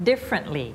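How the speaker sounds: "Differently" ending in "lee", never "ree"; careful L ending. Shown as a demonstration. Teacher fixing a misplaced R, careful "Differently" pronunciation. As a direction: keep R out of the last syllable of "Differently". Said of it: "มันจะเอา R มาละ".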